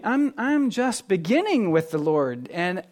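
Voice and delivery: light nervous laugh, overwhelmed; overwhelmed newcomer. Retold or imitated. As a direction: voice a new believer swamped and unsure where to begin. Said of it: "you're thinking".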